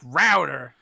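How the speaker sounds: "router" as ROW-der, rhyming with chowder; mock American pronunciation. British co-host mocks how Americans pronounce it, American pronunciation. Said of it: "we're gonna pronounce router with".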